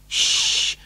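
unvoiced shushing; whispered hush. A narrator's reading. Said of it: "whispered Grandpa Joe".

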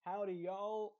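loud, mock Texan greeting; stereotypical Texan accent. Texan mocking the stereotype he rejects, mock Texan accent. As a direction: put on a folksy Texan twang. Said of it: "that kind of a stereotypical Texan".

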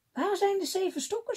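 high-pitched, angry demand; a hint of a furious old witch; old woman screaming in rage at Paul. A narrator's reading. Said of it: "schreeuwde ze, buiten zich van woede".

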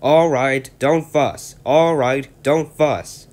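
loud, high, cheeky truck grumble; grumbling trucks. Acted. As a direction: talk back like sulky trucks. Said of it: "And the trucks grumbled".

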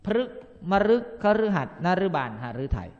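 พฤกษ์ มฤค คฤหัสถ์ with ฤ said as รึ; ฤ sounded รึ throughout; ฤ read as รึ. Shown as a demonstration. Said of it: "ให้ออกเสียงเป็น อึ".

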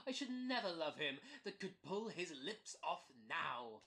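teasing line broken by a laugh. Acted. Laughing while teasing the little gilt head. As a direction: laugh through the jibe.

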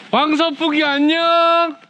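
high, slow singsong hello; cute greeting. Pretend. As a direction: wave hello like a child. Greeting giant fan playfully.

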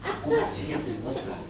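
quoting the pastor. Retold or imitated. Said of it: "dia bilang gini".

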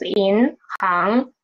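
银行 slowly, both syllables rising in second tone; correct tones. Shown as a demonstration. Teacher repeats correct 银行 for students, slow rising tones. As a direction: lift 银, then lift 行 unhurriedly. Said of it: "It's 银行".

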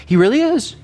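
high, sarcastic fake sincerity; mock insistence. Elijah sarcastically vouching for Baal to the priests. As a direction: pretend to believe in Baal, dripping sarcasm. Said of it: "He's like".

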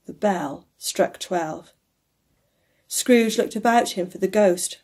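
unhurried audiobook reading; story narration. A narrator's reading. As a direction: read it like a solemn tale, hushing at the very end. Reads the story aloud.

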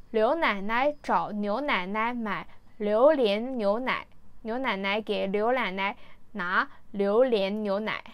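slow, deliberate Mandarin recitation, syllable by syllable; careful tongue twister. Shown as a demonstration. Attempting a hard tongue twister uncut, slow and careful. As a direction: pick through the L and N sounds slowly. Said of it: "早口言葉、绕口令をちょっとね、ノーカットで挑戦したい".

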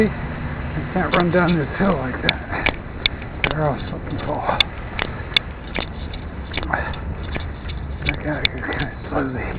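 talking on the move, panting lightly; while running. Real, not acted. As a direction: speak mid-run, a bit breathless. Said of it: "talking while I run".

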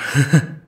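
brief breathy laugh; short chuckle. Acted. Chuckling about spending a night in wolf form. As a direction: chuckle lightly to yourself.

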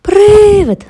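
a high, loud shriek of fright; girl screaming at a ghost; frightened scream. A narrator's reading. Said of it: "закричала дівчинка".

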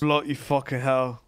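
badly faked British accent; mock British accent. Mimicking the British lawyer, mock British accent. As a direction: imitate his British swearing. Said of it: "Don't even sound like that".

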